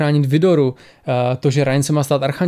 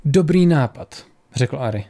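measured audiobook reading with lightly voiced dialogue; story narration. A narrator's reading. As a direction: read the tale aloud, pausing between phrases. Reads the story aloud. (vyprávění příběhu)

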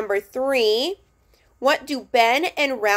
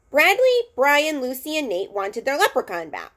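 lively read-aloud with raised character voices; story reading. A narrator's reading. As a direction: read the chapter to the class, bringing each kid to life. Reads a chapter book aloud.

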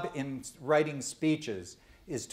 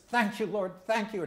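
joyful thanks; 7 semitones higher than usual. Acted. Healed blind man thanks Christ.

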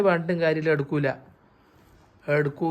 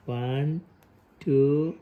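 building playful count; 4 dB louder, much slower than usual. Acted. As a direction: count up to make the baby laugh, exploding on the last number. Father counting to make baby laugh. (Three ഉറക്കെ ഉയർന്ന സ്വരത്തിൽ)

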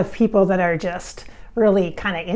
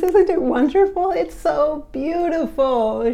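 higher, slower breathy starlet voice; lightly voiced starlet; 6 semitones higher, slower than usual. Channeled Marilyn delights in fans kissing her grave, higher pitched. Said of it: "She says".

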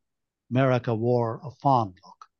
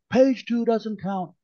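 dismissive; 9 semitones higher than usual. Acted. Dismissive objection in meeting.

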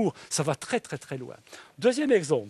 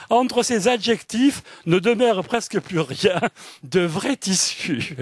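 raised, lively literary reading; reading a passage aloud; 4 semitones higher, 4 dB louder, slower than usual. Acted. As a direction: read the novel's sentence with relish. Reading resumes after aside. (lecture expressive d'un extrait de roman)

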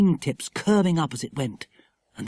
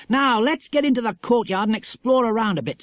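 put-on high, keen young adventurer; rally friends to go exploring; bright-eyed eagerness, pitched up; eager Jack; 7 semitones higher than usual. Story dialogue as Jack.

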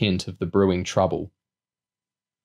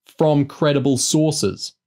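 slow, higher-pitched sour retort; sourly dismissive, drawn out; 6 semitones higher, slower than usual. A narrator's reading. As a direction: add it pointedly, stretching the words. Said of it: "the commando added sourly".

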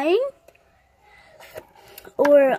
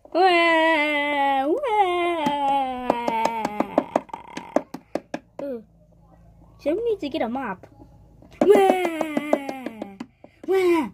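hammed-up fake crying wails; mock wailing "wah"; much slower than usual. Child fake-wailing that nobody listens. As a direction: wail "wah" like a pretend baby cry. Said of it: "I'm crying".

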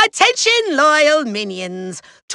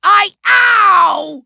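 pained yelp; 3 semitones higher, 4 dB louder than usual. Acted. Villain struck mid-speech.

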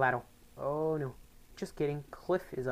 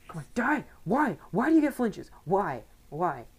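high, loud exasperated shouting; frustrated yelling; 7 semitones higher, 7 dB louder than usual. Real, not acted. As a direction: yell at the screen in disbelief. Frustrated at enemy flinches.

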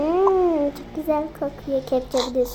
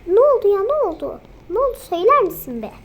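irritated demand; 5 semitones higher, 6 dB louder, faster than usual. Acted. Wife snapping at husband.

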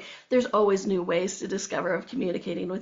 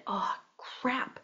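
dawning realization; 8 dB quieter than usual. Retold or imitated. Sudden realization, retold.

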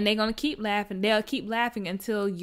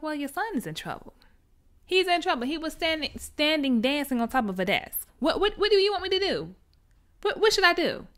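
higher, helpless principal pleading; flustered principal; 7 semitones higher than usual. Retold or imitated. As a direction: throw up your hands, rising and rushed. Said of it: "The principal's like".

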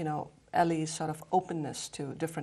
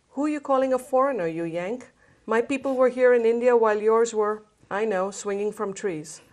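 quick, higher mock-indignant retort; indignant Richard; 6 semitones higher, 9 dB louder than usual. Richard answering Ellie's foreigner jab, fast mock indignation. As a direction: fire back in fast mock offence.

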